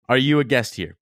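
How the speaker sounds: put-on Spanish accent. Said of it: "Basically, in a Spanish accent".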